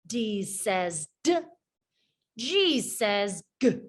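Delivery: each letter sound pushed out with one quick breath; clipped stop consonants, one puff each. Shown as a demonstration. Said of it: "We push the sound out with one quick breath".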